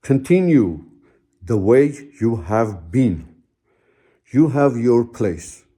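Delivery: grandfather's words, said slowly and gravely; slow, solemn quote. Retold or imitated. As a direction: let each word land, slow and reverent. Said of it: "he says this".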